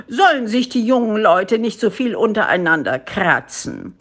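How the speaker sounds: lightly voiced official issuing decrees; monkey politician making a speech; pompous head ape. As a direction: proclaim rules with self-important swings of pitch.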